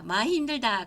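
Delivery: 많이 힘들다 in a mild Gangwon dialect lilt. Retold or imitated. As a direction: say it like someone from Gangneung. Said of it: "강원도 사투리예요". (강원도 사투리로 말하기)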